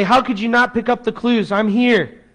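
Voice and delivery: lightly acted telling-off; mock scolding. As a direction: imitate a frustrated reproach. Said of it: "He doesn't scold her".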